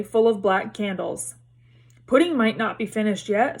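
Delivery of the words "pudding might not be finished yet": hopeful. Acted. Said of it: "said Ron hopefully".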